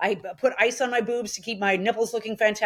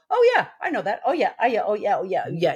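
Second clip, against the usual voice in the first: mock excited recognition. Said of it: "you guys would definitely go".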